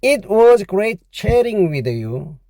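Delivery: very slow, careful English; slow model sentence. Shown as a demonstration. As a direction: read it slowly to copy. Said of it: "영어로 하면요".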